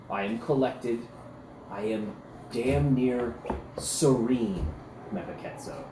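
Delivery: a warrior forcing himself to sound serene; insisting he's calm. Acted.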